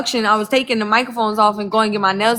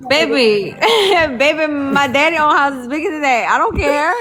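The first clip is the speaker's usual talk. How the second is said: sassy, higher, dismissive; sassy clapback; 4 semitones higher than usual. Acted. Telling off castmates with a sassy higher clapback. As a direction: brush them off with sass.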